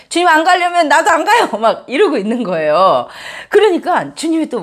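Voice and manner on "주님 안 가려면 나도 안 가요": whiny sulk. Retold or imitated. Moses sulking at God that he won't go, mock whiny. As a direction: pout and whine like a spoiled child. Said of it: "약간 막 앙탈을 부리면서".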